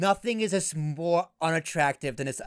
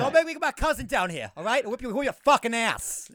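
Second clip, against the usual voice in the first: mock Southie threat; 4 semitones higher than usual. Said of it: "a Southie accent".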